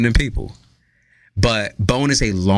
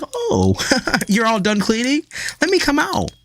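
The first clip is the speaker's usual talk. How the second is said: very high, playful cat voice; cat's voice; 13 semitones higher than usual. Retold or imitated. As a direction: pipe up like a cheeky cat. Voicing the cat after cleanup.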